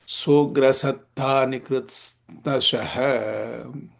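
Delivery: slow, measured verse recital; Sanskrit shloka recitation. Acted. Teacher reading shloka number nineteen, slow recitation. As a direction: recite syllable by syllable, drawing out the line endings.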